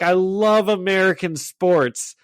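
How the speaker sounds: drawn-out Russian-accented impression by a singer. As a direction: gush slowly in a put-on Russian accent. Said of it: "he's doing it all in, like, a Russian accent".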